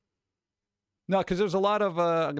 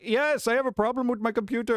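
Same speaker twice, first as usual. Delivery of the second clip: voice changer voice; 8 semitones higher than usual. Retold or imitated. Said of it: "answer with a voice changer".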